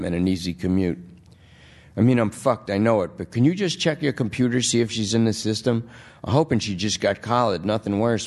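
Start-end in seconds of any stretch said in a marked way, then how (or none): 2.0-8.3 junkie voice. Acted. Lester asks a favour.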